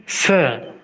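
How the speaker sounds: teacher's S demo; Russian S. Shown as a demonstration. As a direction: say sir with a clear hissed S. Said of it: "The sounding of the letter is sir".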